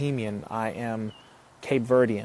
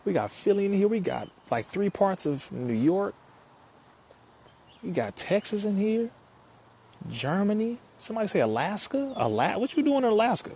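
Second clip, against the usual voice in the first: excited; 9 semitones higher than usual. Real, not acted. Reading out locations, hyped.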